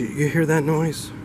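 high, drawn-out worried question; slow, high and urgent; anxious bride. Acted. Bride asking her sleepy husband about a noise, anxious.

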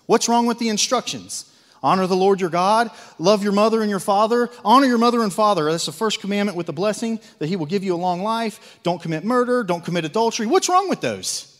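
loud, rising fervent preaching; zealous preaching. Real, not acted. Preacher getting zealous about the instructions. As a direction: build the fire on the commandments. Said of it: "I'm getting zealous".

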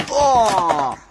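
loud falling "oh"; falling cry. Pretend. Player being teleported home in play, falling cry. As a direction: cry out as if flung away.

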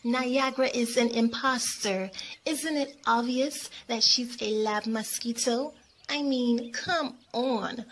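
exasperated, sassy disbelief; eye-rolling attitude. Acted. Miami dismissing Champagne's wish to apologize, with attitude. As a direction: scoff at her as if it's obvious. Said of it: "said with an attitude".

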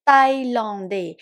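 "thaïlandais" with unaspirated t, tai-lon-dé; careful demo of "thaïlandais", TH said like Thai ต; TH as plain t. Shown as a demonstration. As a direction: say French "thaïlandais" starting on a hard t. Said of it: "เขียนด้วย T H แต่ออกเสียงตัวต่อเต่า".

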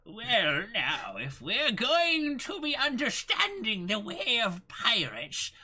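put-on high, slow, quavering old goofball voice; silly super old character. Playing a goofy old character on stream, slow and high. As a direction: ham it up as a doddering old man. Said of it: "just going, like, really silly".

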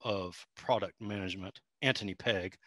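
courtly put-on Southern gentleman; genteel, hammed-up Southern accent. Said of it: "homebrew walkthrough in that accent".

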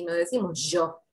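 yo said with a hard zh-like Y; strong Y demo. Shown as a demonstration. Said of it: "nosotros la Y no la pronunciamos así". (yo con la Y muy fuerte)

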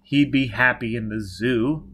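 slow, coaxing pitch; coax, drawing the words out; mildly wheedling persuasion; persuasive. Acted. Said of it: "Baker said persuasively".

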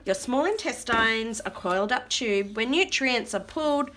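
slow, measured rhyming read-aloud; reading to children. Acted. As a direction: draw out the verse for toddlers. Reads rhyming book aloud.

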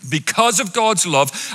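preaching. Acted. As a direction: call and response, drawn out. Congregation call and response.

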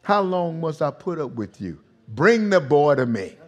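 mildly exasperated, falling phrases; a touch of weary frustration; fed up, then a firm order; frustrated. Acted. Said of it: "you can hear frustration".

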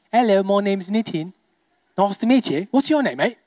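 light mock British accent. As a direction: put on a casual English accent. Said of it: "I love the accent".

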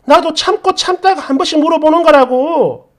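acted indignant complaint; aggrieved wife. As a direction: push back at an unfair scolding. Acted wife protesting in quarrel.

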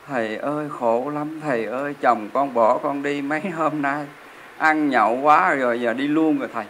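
a hint of a weeping wife begging the monk; tearful complaint. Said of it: "khóc".

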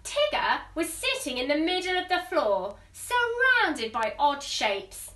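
teacher reading a picture book aloud; story narration. A narrator's reading. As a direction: read it to a class of little ones.

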